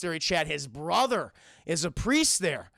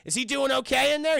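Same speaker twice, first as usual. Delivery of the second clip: mock concern; 5 semitones higher than usual. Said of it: "like, mock concern, Chad, faux concern".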